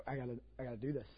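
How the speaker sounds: low murmur to himself; hushed resolve. Retold or imitated. Preacher deciding to wake the aunt, hushed. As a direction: quietly talk yourself into it. Inner resolve, quoted thought.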